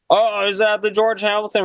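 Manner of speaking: high mock voice of the homeless lady; lightly voiced woman asking where the bar is. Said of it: "She's like".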